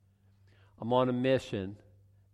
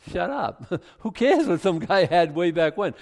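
dismissive; 6 semitones higher, 6 dB louder than usual. Retold or imitated. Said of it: "I'm thinking".

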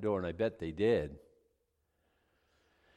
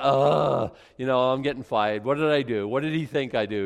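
mock panic; 7 dB louder than usual. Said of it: "and I'm like".

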